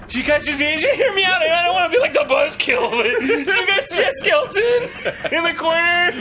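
stoner. Acted. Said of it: "one guy is hallucinating a skeleton".

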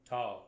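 "Ta" hit hard and loud, then tapering away; accented ta. Shown as a demonstration. Brass teacher demos an accent to students, loud punched syllable. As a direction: punch the "Ta" with a big burst of air. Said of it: "bigger amount of air at the beginning".

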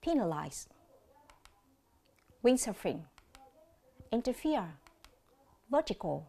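interfere stressed on the last syllable, the others on the first; Penalize, windsurfing, interfere, vertical, each alone with long pauses; word stress demo. Shown as a demonstration. Teacher shows students the odd stress out, careful and separated. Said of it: "quan sát lại một lần nữa nhé".

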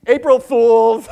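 high, very loud, drawn-out cry; exuberant prank shout. Real, not acted. Comic springs the joke on his audience, exuberant shout. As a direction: belt it out high and slow like a punchline.

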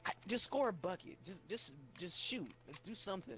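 imitated desperate coaching; mock pleading. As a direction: beg a teammate, half in jest. Acting out a pleading teammate.

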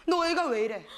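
restrained mock scolding; imitated scolding boyfriend. Retelling the boyfriend's yelling, held-back scolding. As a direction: play the boyfriend starting to scold. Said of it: "나한테 다짜고짜 막 소리를 지르는 거야".

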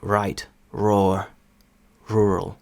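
right, roar, rural with a soft r, none at the end of roar; British-accented right, roar, rural. Shown as a demonstration. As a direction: ease through right, roar, rural with a gentle r. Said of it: "Британці вимовляють його набагато м'якше".

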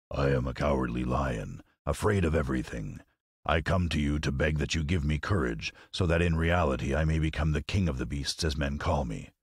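low, humble lion voice; lightly voiced cowardly Lion. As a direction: plead lightly as a timid beast asking a favour.

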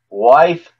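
loud gruff call; growling giant. Acted. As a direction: growl the word. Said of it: "he growled".

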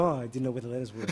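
quick, dry fake innocence; sarcastic mock surprise. Priest sarcastically reacting to the blind man's directions. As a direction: play dumb ironically.

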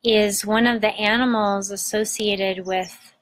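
unhurried meditation guide, long pauses between phrases; guided meditation. Acted. Host guiding listeners to breathe into their belly, guided meditation.

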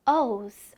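"O's" finishing on a faint z buzz; light z ending. Shown as a demonstration. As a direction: let the s in "O's" turn slightly into z. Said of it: "Z 발음 살짝 들려요".

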